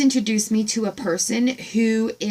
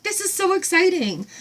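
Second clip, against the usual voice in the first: much higher, amazed; thrilled squeal; 8 semitones higher than usual. Retold or imitated. Retelling her delight to the farm woman, squealing high. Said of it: "I'm like".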